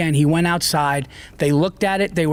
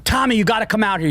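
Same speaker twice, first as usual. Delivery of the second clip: mock yell, high and fast; imitating a frantic shout to Tommy; retold screaming; 8 semitones higher, faster than usual. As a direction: call him out urgently, half-shouting. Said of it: "and they're screaming".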